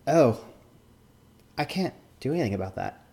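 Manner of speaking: mock Asian accent with halting pauses; put-on Asian accent. Judge refusing to act on a complaint, put-on Asian accent. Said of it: "sorry about the accent".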